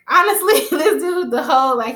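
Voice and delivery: loud, high-pitched exasperated outburst; real exasperation. Real, not acted. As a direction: rant in amused disbelief at him. Exasperated rant about the boyfriend.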